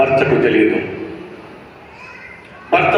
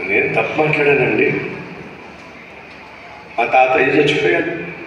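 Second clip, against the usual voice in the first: scared admission; 5 semitones lower, 5 dB quieter than usual. Retold or imitated. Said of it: "భయం వేస్తే".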